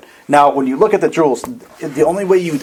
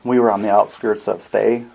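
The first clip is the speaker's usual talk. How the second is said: a gently calming refugee, lightly voiced; calm well-spoken man; 4 semitones lower than usual. Robed stranger explains his burned city to Sid, calm and soothing. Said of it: "his voice is very calming".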